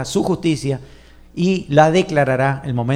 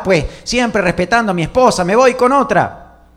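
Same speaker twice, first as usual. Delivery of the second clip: mock complaining believer; 6 semitones higher than usual. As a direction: play the fed-up believer who quits everything. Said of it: "Hay algunos que piensan así". (creyente quejoso, más alto y fuerte)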